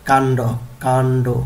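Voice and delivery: কাণ্ড said firmly as kan-do; pronunciation drill. Shown as a demonstration. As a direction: model কাণ্ড in two clear syllables. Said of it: "উচ্চারণ করতে হবে এইভাবে".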